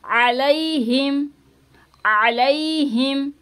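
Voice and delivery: slow, अलैहिम with the ai drawn out; full alaihim. Shown as a demonstration. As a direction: stretch अलैहिम fully. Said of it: "अलै इसको नहीं पढ़ना". (अलैहिम पूरा खींचकर)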